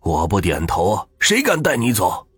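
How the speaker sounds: put-on old man vowing to fight death for his wife; loud, pleading fury; fierce defiant shout. A narrator's reading. Husband refuses to let wife die.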